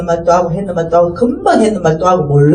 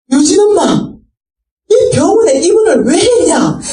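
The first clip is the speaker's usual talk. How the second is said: startled call; 8 semitones higher than usual. Retold or imitated. Mother startled seeing daughter.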